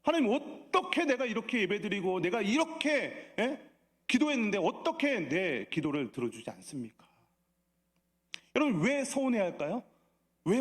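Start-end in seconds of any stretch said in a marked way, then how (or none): 0.0-7.1 hammed-up aggrieved pleading; acted indignant complaint. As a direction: complain as if cheated, without real anger. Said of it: "화를 내기도 합니다".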